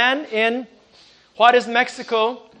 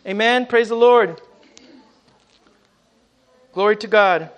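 fervent preaching. Acted. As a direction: preach it to the saints with fire. Preaching at full force.

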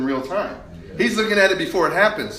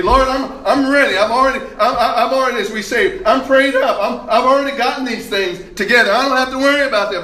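lightly voiced overconfident Peter with a laugh; cocky Peter laughing; 2 semitones higher than usual. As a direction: brag like you're already prayed up.

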